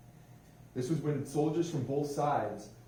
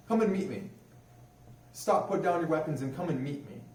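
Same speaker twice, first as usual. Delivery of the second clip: raised, higher voice calling across the distance; calling out across the lines; 6 semitones higher, 4 dB louder than usual. Retold or imitated. German soldier calling across no man's land, raised and high. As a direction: call out to the enemy trenches to come over. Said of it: "a voice rang out from the German side".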